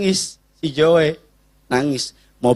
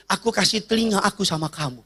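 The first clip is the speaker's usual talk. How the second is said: softer, on the verge of crying; near tears; 2 semitones higher, 4 dB quieter than usual. Acted. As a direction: let it catch as if about to cry. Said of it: "Ngomongnya mau nangis".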